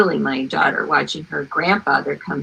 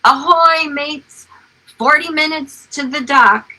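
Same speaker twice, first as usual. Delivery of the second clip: higher mock shout through a bullhorn; booming bullhorn yell; 8 semitones higher, 4 dB louder than usual. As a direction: call down like a captain hailing the pier. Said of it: "in a booming voice yell out".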